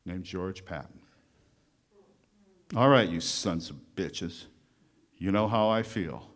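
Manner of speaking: rally the troops like a blunt wartime general, then ease off at the end; George Patton speech. Retold or imitated. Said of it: "but I was quoting history".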